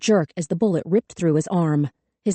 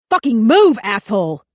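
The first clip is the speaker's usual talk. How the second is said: higher, much louder, frantic yelling; panicked scream; 4 semitones higher, 7 dB louder than usual. A narrator's reading. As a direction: scream it with the gun raised.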